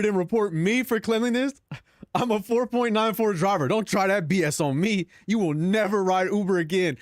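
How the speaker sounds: lightly voiced indignant driver; mock angry driver. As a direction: play the offended driver, half-hammed. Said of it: "It said".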